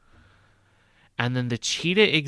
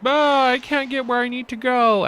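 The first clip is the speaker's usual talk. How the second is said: high, loud mock complaint of a lost visitor; stuck zoo guest; 13 semitones higher, 7 dB louder than usual. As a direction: play a guest who can't reach the exhibit. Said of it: "everyone's gonna be like".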